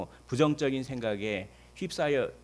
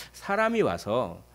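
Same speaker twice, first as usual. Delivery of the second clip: ordinary talk, nothing marked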